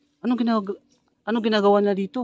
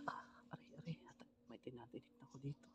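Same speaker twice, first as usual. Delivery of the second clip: whispered ouch; 21 dB quieter than usual. Real, not acted. Pricked by thorns while sneaking.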